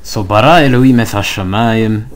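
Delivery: bara put first and hit harder, quick and loud; stress on bara. Shown as a demonstration. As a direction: lead with "bara" and lean on it. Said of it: "Notice how the flavor changes".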